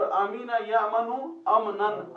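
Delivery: slow, emphatic teacher's recitation; slow Arabic recitation. Shown as a demonstration. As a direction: spell out the Arabic slowly for the class. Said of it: "तो आमीना में देखिए दो चीजें".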